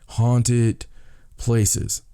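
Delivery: usual speaking voice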